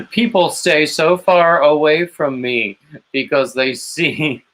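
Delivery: put-on high-pitched, laughing retelling of an old lady; centenarian lady quoted. Retelling a very old lady's driving boast, high and laughing. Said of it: "And she would say".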